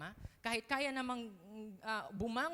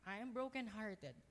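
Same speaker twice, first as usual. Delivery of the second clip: humble prayer. Pretend. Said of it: "aminin yan sa Panginoon na".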